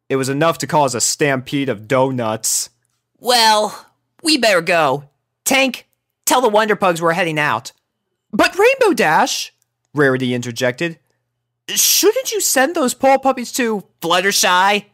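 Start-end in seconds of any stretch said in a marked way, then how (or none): 3.2-7.7 higher, brash tomboy pony; lightly voiced brash filly; Rainbow voice. A narrator's reading. Rainbow explaining the pug name to Rarity, brash. 8.3-13.8 high, refined lady voice; a prim unicorn lady; Rarity voice. A narrator's reading. Elder unicorn speaking to Rainbow, high and refined. 14.0-14.8 higher, sour finish. A narrator's reading. Rainbow sourly finishing Rarity's suggestion. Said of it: "finished a sour Rainbow".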